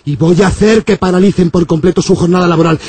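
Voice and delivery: low, threatening priest voice; menacing priest. Acted.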